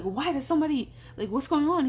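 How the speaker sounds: high-pitched, confused demand; baffled questioning. Retold or imitated. Friend pressing her for the secret, high baffled questioning. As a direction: imitate a friend bursting with questions.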